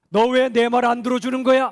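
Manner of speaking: imitating someone yelling at a partner who won't listen; mock shout. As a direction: shout it like a hurt accusation. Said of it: "라고 외칠 때가 있죠".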